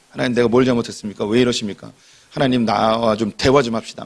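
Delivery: quick, lightly acted complaint to God; mild arguing with God. Job lightly acted, quickly arguing with God. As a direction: press God for an answer in a half-acted protest. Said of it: "따졌던 이 욥이".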